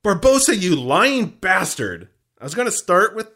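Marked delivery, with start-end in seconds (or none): 0.0-2.1 raised, drawn-out mock outcry; mock yell. Host re-enacting Will's outburst, mock yell. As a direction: stretch out the accusation slowly and theatrically. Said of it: "with Will yelling".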